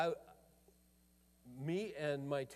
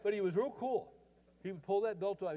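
ordinary talk, nothing marked

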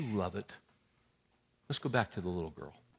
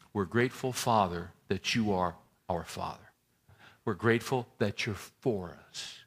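prayer. Real, not acted. Closing prayer.

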